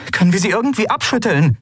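fast, high urgent question; urgent pressing. Acted. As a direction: push for an answer, quickly. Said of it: "drängte sie Aylan".

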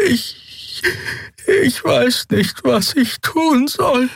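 very high, slow, halting voice; despairing little creature. A narrator's reading. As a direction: draw it out helplessly, high and small. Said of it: "Ihr Horn tutete lange und verzweifelt". (verzweifelt, hoch und stockend)

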